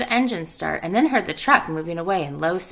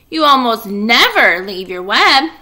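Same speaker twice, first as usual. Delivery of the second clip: worried piglet; 10 dB louder than usual. Acted. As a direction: call out, alarmed she has left. Wilbur worried.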